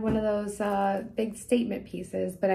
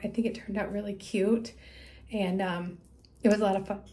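talking through hiccups; words broken by hiccups. Real, not acted. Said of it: "I got the hiccups".

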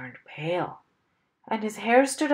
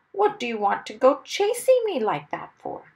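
loud, higher indignant complaint; cross; 5 semitones higher, 5 dB louder than usual. A narrator's reading. Mister Wumble blaming the airplane man, cross. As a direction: demand an explanation crossly. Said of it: "Mister Wumble said crossly".

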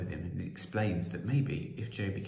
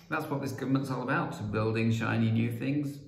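louder, rising politician's pitch; boastful proclamation; 3 semitones higher, 4 dB louder than usual. Acted. Prime Minister boasting of what government is about, proclaimed.

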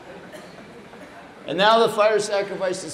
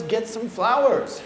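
slow, raised-pitch mild demand; a little agitated; 4 semitones higher than usual. Retold or imitated. Guru noticing the undecorated room, mildly agitated order. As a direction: imitate a mildly impatient order. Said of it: "getting a little agitated".

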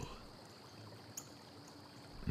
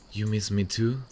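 happy surprise; 7 semitones higher, 5 dB louder than usual. Real, not acted. Delighted at partner's answer.

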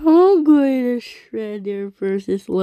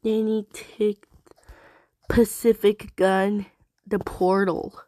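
talking with hiccups; hiccuping between words; 3 dB quieter than usual. Real, not acted. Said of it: "so just got the hiccups".

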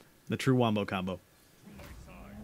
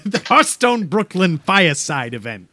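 put-on Brooklyn accent; 5 semitones lower than usual. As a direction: announce it in Brooklynese. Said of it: "like Hearthstone, but Brooklyn".

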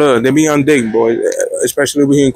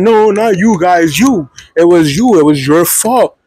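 accusing advisor; 2 semitones higher, slower than usual. Retold or imitated. Advisor correcting student and assigning blame, accusing. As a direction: imitate someone pinning the blame, stressing "you".

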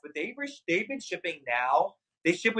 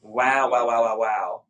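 low awed wows; 7 semitones lower, 4 dB louder, slower than usual. Real, not acted. Admiring the try-on.

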